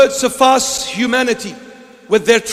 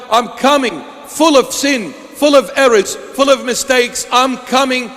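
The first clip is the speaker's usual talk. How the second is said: impassioned plea; 3 semitones higher than usual. Acted. Pleading sinner's prayer at full force.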